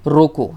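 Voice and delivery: रोको set apart, followed by a stop; pause after रोको. Shown as a demonstration. Teacher showing where the comma falls, pause after रोको. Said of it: "यहाँ पे विराम लग गया".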